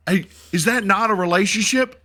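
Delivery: high, loud mocking question; hammed-up sarcastic retort; sarcastic commander. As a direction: rub it in with sarcasm. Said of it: "he was like".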